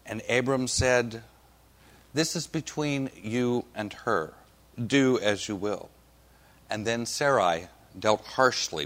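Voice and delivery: deliberate reading from the lectern; scripture reading. Acted. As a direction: read it out solemnly, pausing between phrases. Reads scripture aloud to congregation.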